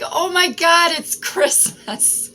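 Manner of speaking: high, breathless squeal of delight; giddy. Retold or imitated. Reader voicing her giddy feeling about the reading, high excited squeal. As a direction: gush like a kid on Christmas morning. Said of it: "like, giddy".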